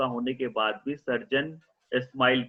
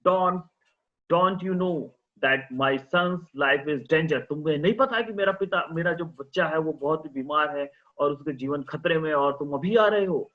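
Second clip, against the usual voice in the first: angry father; 3 semitones higher than usual. Acted. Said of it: "उसका father गुस्से में बोल रहा था".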